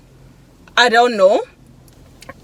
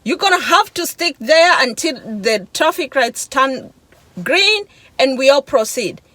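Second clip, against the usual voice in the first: higher-pitched insistent retort; retold protest; 4 semitones higher than usual. Driver refusing to move her car for the man, retold protest. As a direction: re-enact a firm refusal, pitched up. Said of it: "And I'm like".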